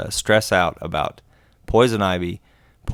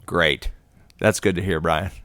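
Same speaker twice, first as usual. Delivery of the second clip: mildly sarcastic, understated approval; faint praise with a dry edge of sarcasm; 3 semitones lower than usual. Real, not acted. Co-host dryly answering that poison ivy is everywhere, sarcastic. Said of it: "Do I sense a little sarcasm there?".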